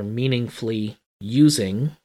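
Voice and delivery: MEANINGFULLY USING set out deliberately, with weight on USING; emphasis on MEANINGFULLY USING. Real, not acted. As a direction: lean on MEANINGFULLY USING as the key term. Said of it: "I keep emphasizing the words".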